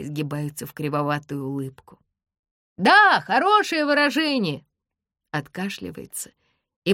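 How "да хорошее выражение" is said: higher, loud approving call; shout. A narrator's reading. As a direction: cheer it down.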